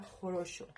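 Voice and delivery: "jorocho" said as "ho-RO-sho"; teacher sounding out "jorocho"; pronunciation demo. Shown as a demonstration. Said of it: "pero se pronuncia".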